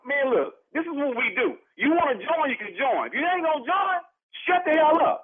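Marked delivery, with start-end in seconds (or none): 3.1-5.2 angry retort. Acted. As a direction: snap it out, sharp and raised. Neighbors quarrel over tailgating.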